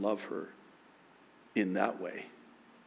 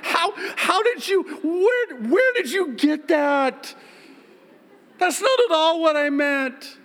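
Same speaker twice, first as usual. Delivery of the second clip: high, loud, wailing and half-crying; husband to crying wife, high wailing panic; panicked husband; 8 dB louder than usual. Retold or imitated. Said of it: "I'm like".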